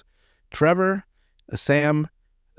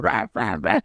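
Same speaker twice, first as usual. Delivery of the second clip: imitated gagging grunts; mock fellatio noises; 4 semitones lower than usual. Retelling Zach's crude gag to a friend, mock fellatio noises. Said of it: "starts imitating fellatio".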